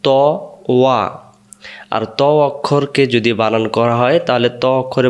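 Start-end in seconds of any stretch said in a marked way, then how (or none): 0.0-1.0 ত then ওয়া said as separate syllables; spelled-out wrong form. Shown as a demonstration. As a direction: break it into ত and ওয়া to show the error. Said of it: "ওয়াও জবর ওয়া".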